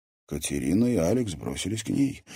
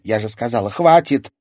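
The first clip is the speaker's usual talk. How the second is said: loud, rising to a high shout; exasperated command to stop; angry outburst; 5 semitones higher, 9 dB louder than usual. A narrator's reading. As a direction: silence them, exploding on the last word. Fed-up girl silences persistent questioner.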